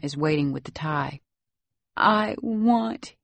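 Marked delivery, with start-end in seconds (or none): 2.0-3.1 put-on high, halting little-boy voice; gasping child. A narrator's reading. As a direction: force it out between gulps of breath. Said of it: "he gasps".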